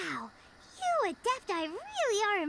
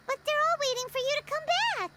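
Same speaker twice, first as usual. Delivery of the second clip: fast, higher, louder urging; urgent plea; 5 semitones higher, 3 dB louder, faster than usual. Real, not acted. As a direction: rush it out, pleading her to come back. Urging Ganyu to return.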